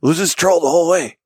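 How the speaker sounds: high, mock-wounded plea; lightly hurt pleading voice; hurt buddy. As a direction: play the hurt friend asking to keep going. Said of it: "he is all hurt".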